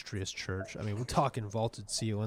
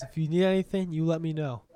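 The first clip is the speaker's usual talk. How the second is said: put-on very old man; 4 semitones higher, 4 dB louder than usual. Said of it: "and he says".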